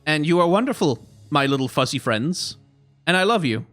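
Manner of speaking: ordinary talk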